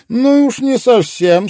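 high, sneering jab; mocking high retort; sarcastic. A narrator's reading. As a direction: needle him sarcastically. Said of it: "съязвил Везер".

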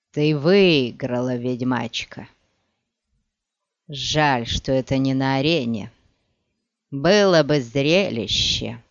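slow, strained words of a beaten man; bitter defeated villain, speaking slowly; dying villain voice. Acted. (медленный голос поверженного злодея)

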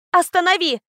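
sharp call to the driver; shout. Acted. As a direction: yell it out to stop the carriage. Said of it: "крикнула я".

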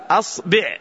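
أصبع said "as-bi'", a then i; short i after the ba in أصبع; kasra on ba. Shown as a demonstration. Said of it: "نكسر الباء مع ال-، الهمزة فنقول".

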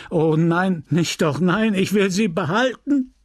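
clinging to her, scared; frightened stammer. A narrator's reading. Widower refusing to give up his dead wife, frightened stammer. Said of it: "mit stammelnder und erschrockener Stimme".

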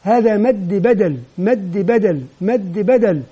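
measured, clearly articulated repetition; deliberate teaching drill, evenly repeated; clear pronunciation. Shown as a demonstration. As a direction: say the term clearly for learners. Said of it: "وأبدأ أنطقها بشكل واضح".

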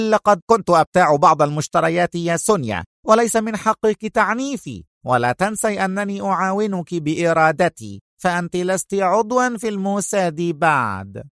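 mild indignant outcry; sharp protest. Acted. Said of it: "هتفت راشيل في حدة". (احتجاج بحدة)

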